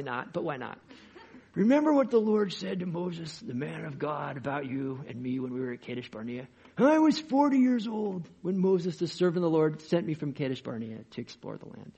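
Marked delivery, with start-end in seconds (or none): 1.5-11.9 lightly put-on character reading voice; Caleb. Preacher voicing an old scout's words to Joshua, lightly put-on voice. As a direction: open high and loud, settle as you go. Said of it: "read this in this voice".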